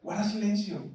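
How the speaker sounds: mild hushing. Acted. Jesus telling the healed to keep quiet, hushing. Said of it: "o sea, él decía, "No, no, quédate calladito".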